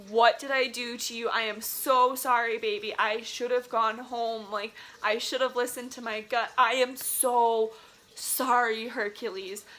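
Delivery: choked-up real apology to her car; emotional apology to car. Real, not acted. Apologizing to her damaged car, Hercules, with a touch of real tears. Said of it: "I'm getting emotional".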